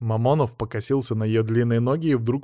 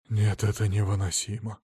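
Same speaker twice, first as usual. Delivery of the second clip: lower, softer exasperated moan; groaning; 3 semitones lower, 4 dB quieter than usual. Acted. Husband worn out by his wife, groaning. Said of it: "простонал Мамонов".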